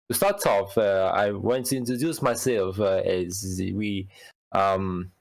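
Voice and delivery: put-on French host, hesitant; loosely faked French accent. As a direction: introduce the show in a mock French accent. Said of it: "put up a French accent".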